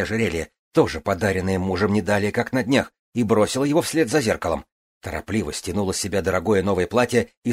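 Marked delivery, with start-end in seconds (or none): none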